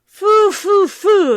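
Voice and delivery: very high, loud witch shriek; witch exclaiming. Acted. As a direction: sniff the air like a witch catching a scent. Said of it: "exclaimed the witch".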